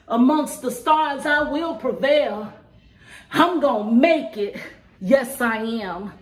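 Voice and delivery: rhythmic spoken word recital; measured poetry performance; spoken word poem. Acted. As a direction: perform the poem with a steady beat.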